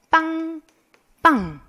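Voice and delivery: drawn-out spoken honk, high then falling; car honk imitation. Teacher showing students how cars sound, honk imitation. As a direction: imitate a car horn in single beeps. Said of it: "여러분 귀에도 이렇게 들리죠".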